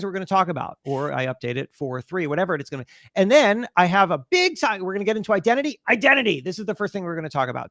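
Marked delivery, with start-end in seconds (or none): 4.8-7.7 stage presenter demo. Shown as a demonstration. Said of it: "I'm always signposting for people".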